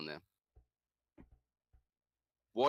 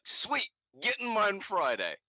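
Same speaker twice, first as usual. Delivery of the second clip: excited; 10 semitones higher, 5 dB louder than usual. Retold or imitated. Excited reply to friend.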